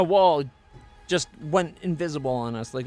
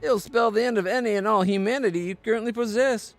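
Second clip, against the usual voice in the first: urgent warning voice; 5 semitones higher than usual. Acted. Paladin warns against becoming undead.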